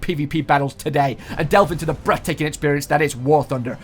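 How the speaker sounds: hype announcer ad. Acted. Host announcing a tank demolition to viewers, hyped ad read. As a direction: open big like a stunt-video host.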